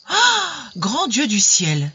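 high astonished cry; shocked exclamation. A narrator's reading. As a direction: gasp it out in shock. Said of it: "s'écria toute l'assemblée".

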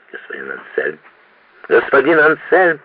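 exclaiming. Acted. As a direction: call his name in alarm, rising. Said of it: "воскликнул конректор Паульман".

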